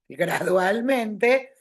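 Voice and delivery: "gradualmente" stretched syllable by syllable; a slow, demonstrating "gradualmente"; slow, drawn out. Shown as a demonstration. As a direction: draw "gradualmente" out slowly to show the change. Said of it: "Como va de joven a viejo".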